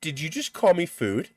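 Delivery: stammering mock disbelief; imitated stutter. Stunned Karen answers the man who called her food, stuttering. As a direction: stumble over the first word, retelling her shock. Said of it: "she literally stutters".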